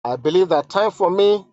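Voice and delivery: solemn dramatic reading; letter read aloud. Acted. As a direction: read each line as if it were the queen's own plea.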